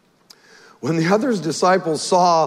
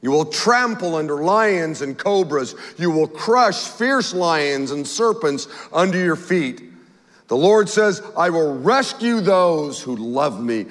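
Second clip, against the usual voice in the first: slow, measured Bible reading; unhurried reading of a psalm to the congregation; scripture reading. Acted. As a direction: read the psalm out with solemn weight. Reads Psalm 91 aloud.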